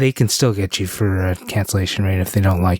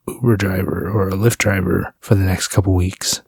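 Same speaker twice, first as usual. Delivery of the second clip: mood voice; 4 semitones lower than usual. Pretend. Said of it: "why are you talking like that?".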